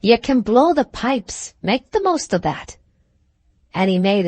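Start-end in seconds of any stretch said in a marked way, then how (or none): 0.0-2.8 bitter concession. Acted. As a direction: spit out the concession in anger. Alan angrily conceding and rising.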